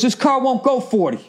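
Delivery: high, prim put-on voice of the Jaguar driver; snooty driver.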